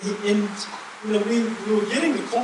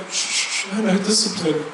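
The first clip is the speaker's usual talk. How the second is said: laughing shush. Retold or imitated. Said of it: "and we'd laugh and go".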